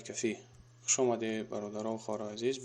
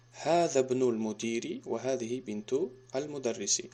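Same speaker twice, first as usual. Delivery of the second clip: slow, careful Arabic read-aloud; slow model reading. Shown as a demonstration. Teacher repeats the sentence slowly for students. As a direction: spell out each word slowly for the class. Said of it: "teacher repeats it for students".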